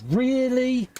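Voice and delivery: high, incredulous "Really?" leaping up; "Really?" squeaked way up in mock surprise; imitating a friend's shocked "Really?"; mock disbelief.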